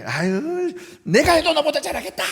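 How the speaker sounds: loud high jeering at a player; annoyed fan shouting from the stands; fan heckling. Retold or imitated. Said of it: "막 이러다가". (답답한 관중의 야유)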